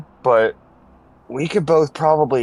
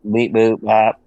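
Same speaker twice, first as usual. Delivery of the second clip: robot beeps; 6 semitones lower, slower than usual. Pretend. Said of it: "You're a robot again".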